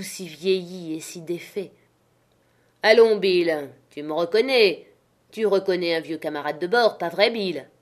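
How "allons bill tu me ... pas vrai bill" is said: put-on sly old sailor. Black Dog coaxing the captain.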